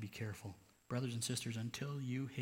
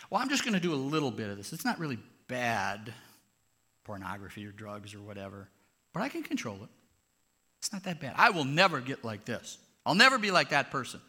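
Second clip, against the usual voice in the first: self-justifying sinner; 6 dB louder than usual. Acted. Preacher voicing self-justifying sinner.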